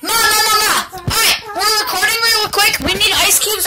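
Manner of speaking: calling loudly to mom upstairs. Real, not acted. Calling mom from another room.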